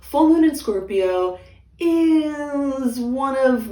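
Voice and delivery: loud, slow booming announcer voice; monster truck announcer. Acted. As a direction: boom it out like a rally host. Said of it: "I'm using my monster truck rally announcer voice".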